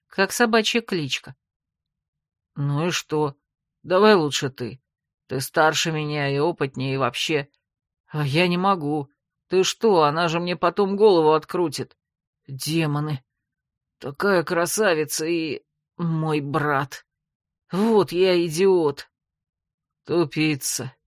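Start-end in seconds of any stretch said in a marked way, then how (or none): 2.6-19.1 flustered younger brother. Acted. 20.1-21.0 flat low put-down; cutting verdict. Acted. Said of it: "припечатал хозяин бархатного голоса".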